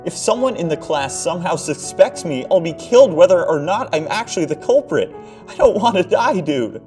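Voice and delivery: terrified screaming. Acted. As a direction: cry out that you will die. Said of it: "he screamed".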